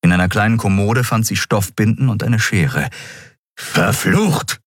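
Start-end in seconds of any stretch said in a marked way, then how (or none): 3.6-4.6 angry curse, pitched high; Keru, fauchend. A narrator's reading. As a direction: spit out the curse in exasperation. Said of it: "fauchte Keru". (wütend gefauchter Fluch)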